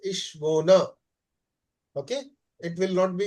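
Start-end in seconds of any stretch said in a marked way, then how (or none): 0.1-0.9 "Ishvona" sounded out as ish-VOH-na, ending in a; teacher models "Ishvona" slowly for the class; careful pronunciation. Shown as a demonstration. Teacher teaching students the verb ending, careful demo. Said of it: "the pronunciation will be like this".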